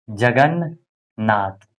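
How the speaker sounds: drawn out very slowly, each syllable apart; teacher stretching जगन्नाथ to show its parts. Shown as a demonstration. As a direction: spell it out slowly for the class. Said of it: "जगन्नाथ में क्या हो जाएगा".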